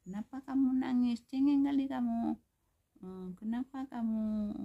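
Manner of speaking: high, loud mock telling-off; loud, high-pitched imitation of a cross teacher; angry scolding teacher. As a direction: act out a teacher snapping at a crying child. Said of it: "guru marah, mem-, memarahi".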